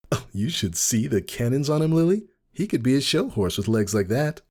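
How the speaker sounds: high, teasing gossip voice; voiced gossiping friend. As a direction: tease her friend about the stallion. Friend Daisy voiced in story.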